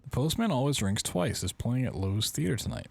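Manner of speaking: personal note read aloud. Acted. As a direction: read it out clearly, as a written note.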